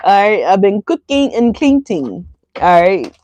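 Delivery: slow, drawn-out Madea voice; lightly voiced sassy grandma.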